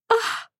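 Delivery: soft, high swooning sigh; swooning "aah". Acted. Reacting to a sweet love letter, swooning. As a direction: let out a lovestruck little "ah".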